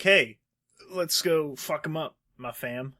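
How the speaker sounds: mock rallying cry. Mocking Ellie's revenge attitude.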